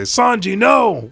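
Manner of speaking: very high, loud, drawn-out shout; hammed-up scream of dismay; acted horrified cry. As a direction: cry out for a friend in danger. Friend cries out as Sanji is blasted.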